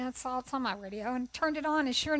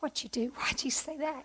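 laughing at herself. Retold or imitated. Retells her own reaction, laughing.

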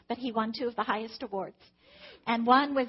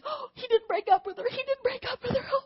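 hopeful; 11 semitones higher than usual. Retold or imitated. Mother's hopeful inner thought.

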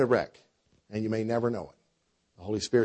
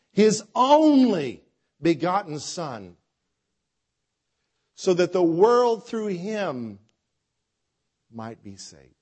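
slow solemn preaching; 5 semitones higher, slower than usual. Acted. Preacher slows on key verse.

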